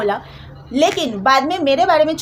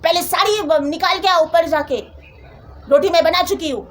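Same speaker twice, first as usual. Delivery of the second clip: imitating mother-in-law's sharp order, slightly raised; 3 semitones higher than usual. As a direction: raise your voice a touch, imitating her. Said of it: "सास ने एकदम वैसे ऊँची आवाज़".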